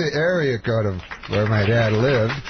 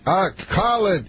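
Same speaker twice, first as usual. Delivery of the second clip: higher, imitating Bill Cosby in single words; Cosby impression; 8 semitones higher than usual. To Norm in the suit, mock Cosby word-talk. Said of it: "he talks, like, just in words".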